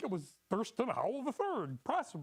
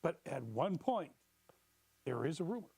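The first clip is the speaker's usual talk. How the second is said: mysterious; 4 semitones lower than usual. Acted. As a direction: spin it like a ghost story. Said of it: "Incorporate mysterious elements".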